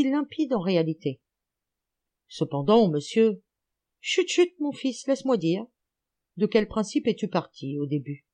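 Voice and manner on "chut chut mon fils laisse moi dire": hushing. A narrator's reading. Old man hushing interrupting pupil.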